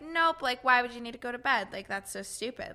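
snappy, dismissive inner critic; mean capitalist voice. Retold or imitated. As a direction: scoff at the need for rest, fast at first. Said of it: "weird capitalist voice is like".

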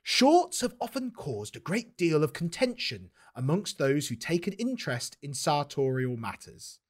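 measured, slow article reading; imagined fashion writer's voice. Acted. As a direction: read it slowly as the imagined author. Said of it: "try and imagine the voice".

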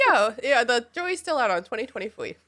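put-on high, childish baby voice; baby talk. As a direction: coo it like a toddler. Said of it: "talk in baby talk".

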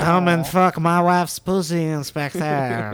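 put-on hammy sinister French accent; mustache twirling villain. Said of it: "or French villain".

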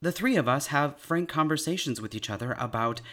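upbeat podcast announcer read. Acted. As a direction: read it like a sponsor spot. Reads an ad break message.

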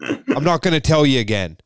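high, nagging mock scold; scolding mom. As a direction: nag like an exasperated mother.

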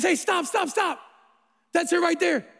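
a mock guy leaping on the perfect name; playful imitated excitement; excited interruption.

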